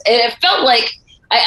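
normal talking voice

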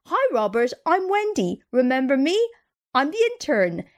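a high, squeaky put-on intern voice. Coworker imitating Wendy's greeting, squeaky voice. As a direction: chirp it like an eager kid. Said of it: "says in this squeaky voice".

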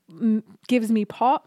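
spraying spit on the s; wet, spitty sibilants; spitty s sounds. Real, not acted. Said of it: "No, I just spit everywhere".

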